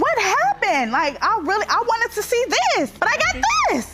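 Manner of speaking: high, whiny disbelief; whiny tv court complaint. Retold or imitated. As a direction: whine it like a letdown. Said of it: "I'm like".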